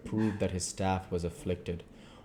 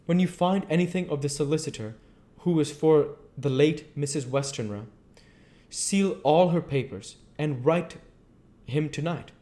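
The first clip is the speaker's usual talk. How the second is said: higher voiced, earnest foreign professor; foreign old professor; 7 semitones higher, 4 dB louder than usual. Professor explains to his colleague why he checks papers, higher and earnest. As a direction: speak as the learned foreigner, insistent.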